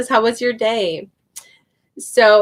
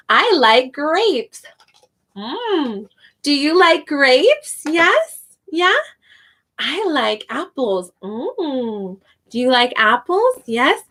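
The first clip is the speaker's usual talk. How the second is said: slow, bright classroom voice, pitched higher; ESL teacher voice; 4 semitones higher, slower than usual. Shown as a demonstration. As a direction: model it slowly for young learners. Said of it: "I add fruit to it and I say".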